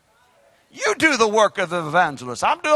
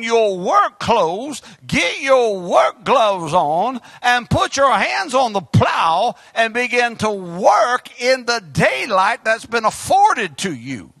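preaching shout; slower than usual. Acted. Preacher urging the church to get to work, shouting. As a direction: preach it out, full voice.

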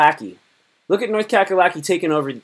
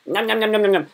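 higher, rapid-fire nom-noms; mock gobbling noise; 6 semitones higher, faster than usual. Streamer acting out Virginia on the map, mock gobbling. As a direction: gobble playfully in a pitched-up voice. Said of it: "Virginia's just like".

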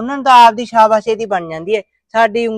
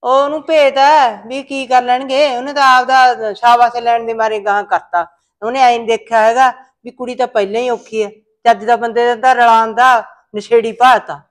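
angry rant; 4 dB louder than usual. Acted. Mother furious at the son-in-law's deceit, loud and bitter. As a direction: scold him hotly, slowing on each charge. Mother rails against the matchmaker.

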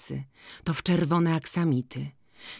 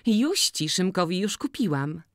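put-on lively village girl; 5 semitones higher than usual. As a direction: pitch it up and call out to Maciej.

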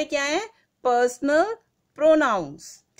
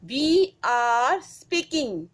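slow, stressing I; teacher demonstrating first person; slow example read; much slower than usual. Shown as a demonstration. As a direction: lean on I, word by word. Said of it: "हम बोल रहे हैं ना".

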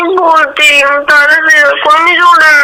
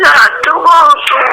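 crying. Real, not acted. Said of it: "બસ હવે રોવાનું બંધ કર યાર".

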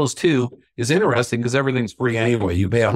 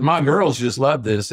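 slow, higher Kentucky imitation; mock Kentucky twang, drawn out; heavy Kentucky accent; 4 semitones higher, slower than usual. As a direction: quote the dad in a Kentucky drawl. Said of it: "in his heavy Kentucky accent".

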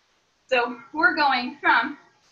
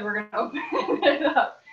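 laughing through it. Real, not acted. Laughs while giving the instruction.

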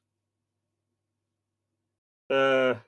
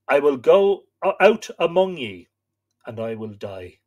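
defiant resolve; 2 semitones higher, 5 dB louder than usual. Acted. Stag answering the wolves, mild defiant call. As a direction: announce your fate to the wolves. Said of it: "I said".

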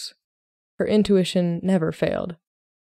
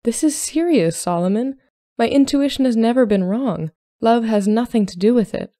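higher, louder, insistent protest; indignant; 5 semitones higher, 5 dB louder than usual. A narrator's reading. Emmeline insists to Solomon that it is serious, indignantly. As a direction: press the point indignantly. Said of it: "Emmeline asked indignantly".

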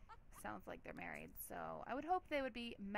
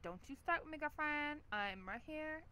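put-on sassy girlfriend; 5 semitones higher than usual. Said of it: "She's like".

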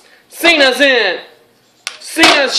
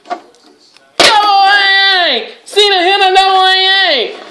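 excited call; 7 semitones higher than usual. Acted. Big finishing move lands.

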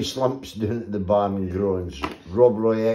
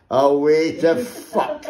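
crowd shout; 4 semitones higher, 4 dB louder, slower than usual. Retold or imitated. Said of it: "raise their tankards and shout".

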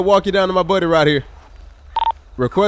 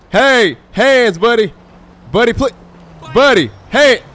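calling out; 4 semitones higher, 4 dB louder than usual. Real, not acted. Cop yelling at fleeing suspect.

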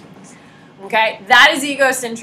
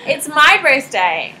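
put-on stubborn kid; 4 semitones higher, 5 dB louder, slower than usual. Kid insisting in story.

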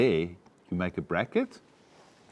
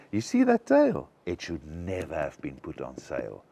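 accusing; 4 semitones lower than usual. Shown as a demonstration. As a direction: accuse him with "You see that tale?". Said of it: "it's an accusation towards him".

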